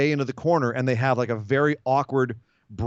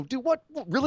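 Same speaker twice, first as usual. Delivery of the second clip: high-pitched, mock-incredulous what; imitating kids reacting in disbelief; 12 semitones higher than usual. Kids gaping at the one who went too far, mock incredulous. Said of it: "everyone kinda looks at them and go".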